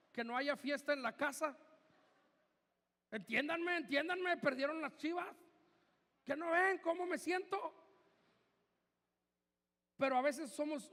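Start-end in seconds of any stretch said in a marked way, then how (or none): 3.1-7.7 mock plaintive, pitched-up pleading; lightly hammed-up wounded fan; upset football fan. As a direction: imitate a fan begging for sympathy after a loss. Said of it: "cuando tú lloras porque perdió el mugroso Chivas".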